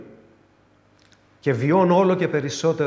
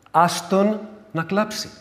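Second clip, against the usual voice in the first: mild scolding; 5 semitones higher, slower than usual. Retold or imitated. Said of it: "να μαλώσω λίγο κάποιους συγγενείς".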